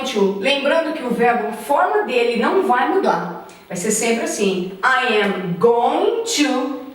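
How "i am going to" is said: very slow model phrase. Shown as a demonstration. Exemplo em inglês.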